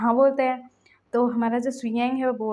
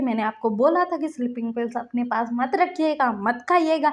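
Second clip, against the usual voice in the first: angry scolding; 2 semitones higher than usual. Retold or imitated. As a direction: lecture him, getting sharper. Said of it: "लांसन गुस्सा कर रहा था".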